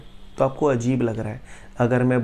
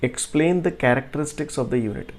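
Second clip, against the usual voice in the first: slow, word by word reading of the question; slow dictation; 4 dB quieter, much slower than usual. Shown as a demonstration. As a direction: read it out slowly for note-taking. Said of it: "जो next question है वो हमसे बोल रहा है".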